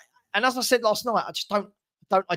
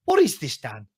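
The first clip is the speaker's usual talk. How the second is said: pitched-up exasperated cry; 4 semitones lower than usual. Real, not acted. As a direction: demand it in disbelief. Exasperated rant.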